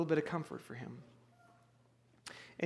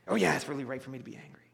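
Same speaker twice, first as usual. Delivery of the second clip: fast, lower sarcastic retort; sarcastic Jonah; 4 semitones lower, much faster than usual. Retold or imitated. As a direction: toss it back sulkily. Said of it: "sarcastic reply for Jonah".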